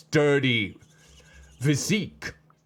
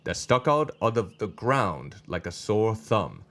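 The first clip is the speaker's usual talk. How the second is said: measured, understated storytelling read; story narration; 3 semitones lower than usual. A narrator's reading. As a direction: read the scene aloud evenly. Reads the story aloud.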